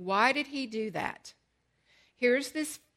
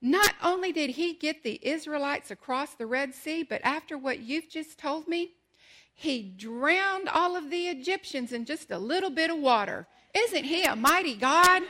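put-on excited little boy; 5 semitones higher, 4 dB louder than usual. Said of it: "He goes".

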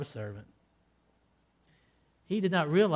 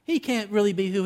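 scornful disbelief; 5 semitones higher, 5 dB louder than usual. Retold or imitated. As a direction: voice Judas scoffing at a servant king. Preacher voices Judas's scornful thought.

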